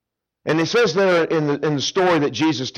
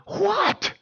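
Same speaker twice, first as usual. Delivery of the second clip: groggy what. Acted. Woken neighbor answers.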